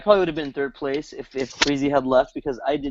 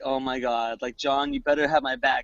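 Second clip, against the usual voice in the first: imitating sad; 5 semitones lower than usual. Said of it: "he was so sad".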